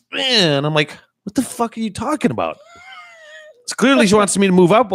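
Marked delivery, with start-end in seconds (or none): 0.1-0.6 long, high honk noise; imitated car horn. Lady honking from behind, imitated horn. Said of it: "honking and doing this fucking thing". 1.2-2.6 mock bewilderment. Retells reacting to honking driver.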